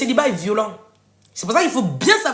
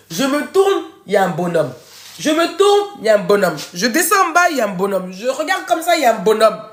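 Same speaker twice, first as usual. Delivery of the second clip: playful bragging; 3 semitones higher, 5 dB louder than usual. Acted. Mock bragging, repeated.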